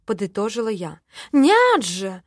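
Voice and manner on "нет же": loud, high protest; loud indignant denial. Acted. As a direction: object sharply. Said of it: "возмутился Филя".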